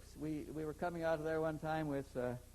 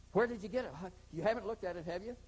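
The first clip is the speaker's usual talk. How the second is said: a lightly voiced anxious man; retold breathless alarm; 5 semitones higher, faster than usual. Anxious man rushing in, out of breath: urgent questions. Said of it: "all out of breath".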